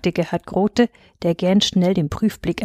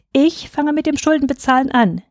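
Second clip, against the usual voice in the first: higher, plucky announcement; bold; 7 semitones higher than usual. A narrator's reading. Husband volunteering to pay in kisses, bold. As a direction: call it out bravely. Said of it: "rief er mutig".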